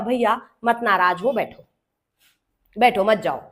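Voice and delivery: low, gentle coaxing; placating. Acted. Teacher coaxes the departing verb to sit, placating. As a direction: soothe a sulking friend into staying.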